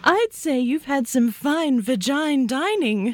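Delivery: slow, words through laughter; laughing while talking. Real, not acted. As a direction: say it while cracking up.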